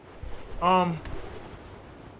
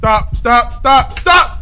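panicked shouting; 4 semitones higher, 4 dB louder, much slower than usual. Real, not acted. Panicked at threat in game.

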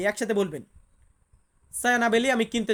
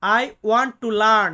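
very slow and louder, "I want to learn" with weight on want; slow emphatic repeat; 5 dB louder, much slower than usual. Shown as a demonstration. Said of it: "ইংরেজিতে আমরা বলি". (আরও জোরে, want শব্দে জোর দিয়ে ধীরে বলা)

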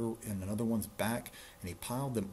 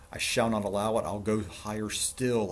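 defiant vow; 6 dB louder than usual. Acted. King defiantly vows to climb higher.

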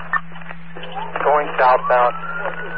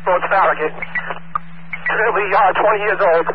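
urgent pursuit call; 5 semitones higher than usual. Real, not acted. Officer in foot pursuit.

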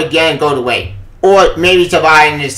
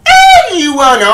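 angry shout; 9 semitones higher, 5 dB louder, slower than usual. Real, not acted. Ranting at the comic.

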